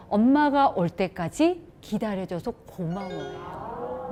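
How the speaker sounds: put-on grateful to child. Shown as a demonstration. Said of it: "어떻게 이제 하셔야 되냐".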